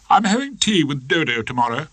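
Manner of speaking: a hint of a haughty wife; wife announcing plans, cool; Hilda voice. Hilda speaking to Rumpole.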